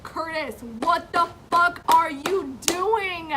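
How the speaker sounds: loud, slow, outraged demand; angry yell. Retold or imitated. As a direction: shout it at him in disbelief. Yelling at friend's boyfriend.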